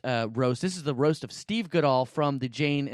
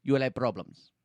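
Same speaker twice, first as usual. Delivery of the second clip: bad Indian accent. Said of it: "That was the worst accent ever".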